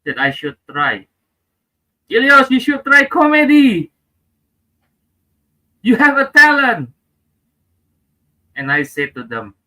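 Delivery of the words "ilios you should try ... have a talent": people advising. Retold or imitated. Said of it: "people give me the last advice".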